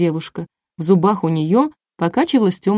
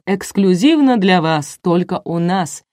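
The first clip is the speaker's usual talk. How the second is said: measured showman's announcement; host building up a big reveal; TV announcer. A narrator's reading. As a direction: announce it grandly, drawing out the opening. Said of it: "объявил Николай, глядя прямо в камеру".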